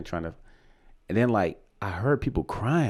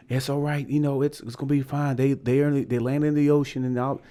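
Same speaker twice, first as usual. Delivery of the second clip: higher-pitched, lightly voiced reassurance; imitated comforting; 5 semitones higher than usual. Airport worker telling crying family it's fine, imitated reassurance. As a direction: reassure as if quoting someone else. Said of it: "dude's still trying to comfort".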